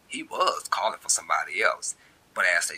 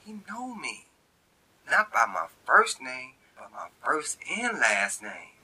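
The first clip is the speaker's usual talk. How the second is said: inner voice; 6 semitones higher than usual. A narrator's reading. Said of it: "say words within".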